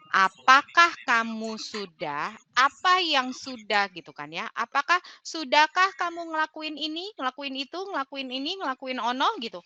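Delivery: high, testing, list-like questions; mock interrogation of the coachee; quizzing tone. Shown as a demonstration. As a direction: fire off checklist questions like a quiz. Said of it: "ini jadinya kayak ngetes".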